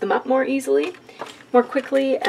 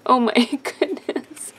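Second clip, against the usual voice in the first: breathless laugh between sneezes; laughing after sneezing; 4 semitones higher, 3 dB quieter than usual. Real, not acted. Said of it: "I'm having a huge sneezing attack here".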